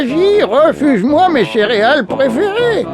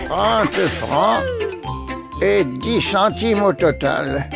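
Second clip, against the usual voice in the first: cashier announcing; 6 dB quieter, slower than usual. Acted.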